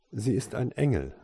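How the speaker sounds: mildly friendly nanny. A narrator's reading. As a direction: answer kindly, a touch lifted. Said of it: "erwiderte die Frau freundlich".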